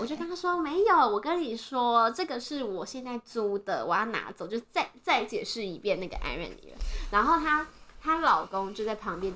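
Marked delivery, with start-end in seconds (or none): 0.6-4.5 slow, patient imitation of herself; restrained politeness. Retelling herself explaining to an elder, slow and politely restrained. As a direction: explain slowly, holding the temper back. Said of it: "温良恭俭让对老人家".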